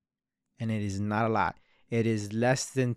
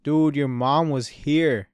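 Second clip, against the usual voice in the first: louder, slow, drawn-out alarm; friend's alarmed warning; 2 semitones higher, 7 dB louder, slower than usual. Retold or imitated. Friend at the door warning him mom came, loud and slow. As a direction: sound the alarm about mom being here. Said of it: "he's like".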